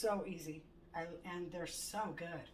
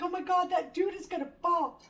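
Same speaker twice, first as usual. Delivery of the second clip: alarmed; 10 semitones higher, 11 dB louder than usual. Retold or imitated. Alarm at falling car.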